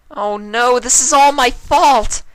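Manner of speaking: high, loud anguished cry; high-pitched wail of guilt; crying out in distress. A narrator's reading. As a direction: cry it out in dismay, blaming herself. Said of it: "Twilight cried out".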